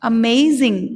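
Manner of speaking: अमेजिंग stressed on MAY; teacher's model "uh-MAY-zing"; word stress. Shown as a demonstration. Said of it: "इसको बोलेंगे".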